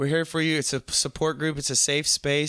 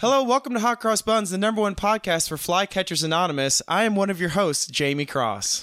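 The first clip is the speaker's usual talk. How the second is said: lively, bright, pitched-up, energetic host voice; 5 semitones higher than usual. Redoing the podcast intro after the energy went down: higher energy intro. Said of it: "the energy went down, didn't it?".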